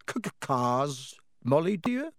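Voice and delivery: nervous stutter, rising at the end; guilty stammer. Acted. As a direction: caught out, stumbling on the word. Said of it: "stared guiltily at his wife".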